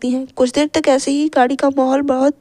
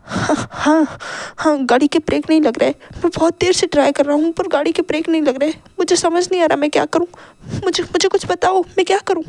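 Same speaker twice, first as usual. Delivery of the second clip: rising panic, climbing higher toward the end; husband can't stop the car, growing panic; panicking; 4 semitones higher than usual. Acted. Driver tells wife the brakes failed, rising panic. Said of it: "मिस्टर लैन बहुत ही ज़्यादा घबरा रहे थे".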